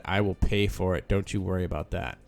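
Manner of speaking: ordinary talk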